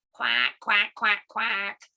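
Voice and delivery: evenly pitched duck quacks in pairs; duck quacking. Acted. Story's ducks answer.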